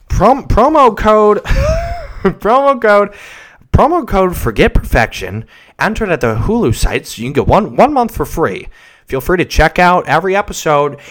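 mock host pushing a promo code; podcast ad read. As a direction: stumble brightly through a sponsor script. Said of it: "they pull out their script".

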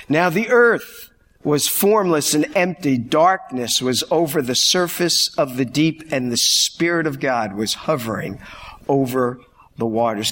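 solemn scripture reading; booming biblical narration. Acted. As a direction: read it like sacred text, measured. Reads Genesis aloud.

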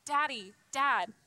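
lightly voiced child calling for dad; drawn-out, mildly pleading call of a hurt kid. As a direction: call slowly for dad, only hinting at tears. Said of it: "they're crying, you know".

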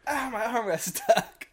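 high, slow words through laughter; giggling as you speak; laughing. Real, not acted. Laughing, stuck in chair.

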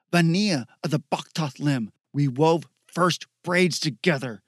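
name the dead friend in bitter grief; grieving anger. Acted. Zoe mourns her friend.

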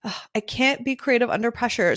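mildly exasperated, imagined venting; frustrated outburst. Retold or imitated. Photographer venting what she held back, mildly frustrated. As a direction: let pent-up frustration slip out. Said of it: "what wanted to burst out of me".

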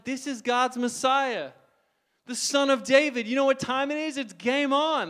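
rally like a fighter ready to swing; eager battle cry. Retold or imitated. Peter to the disciples, a high, loud fired-up cry.

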